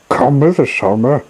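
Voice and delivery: elephants calling. Acted. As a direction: call out to him in a hurry. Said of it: "called the elephants as they stampeded past".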